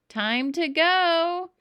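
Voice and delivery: high, loud, slow call; hollered across the trees; dad calling son to leave. A narrator's reading. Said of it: "a voice called through the woods".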